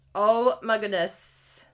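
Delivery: loud slow amazed exclamation; delighted. Real, not acted. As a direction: gush with delight. Delight at result.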